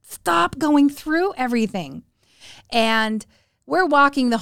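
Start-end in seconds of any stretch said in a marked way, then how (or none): 0.0-2.0 slow, high exasperated telling-off; mock scolding. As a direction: imitate a nagging mom, stretching the words. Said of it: "kept getting on to him".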